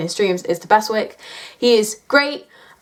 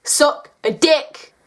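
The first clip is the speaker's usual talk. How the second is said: slow, higher mock outburst; retold outburst; 5 semitones higher, much slower than usual. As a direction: act out past hatred, stretching each word. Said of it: "and I was like".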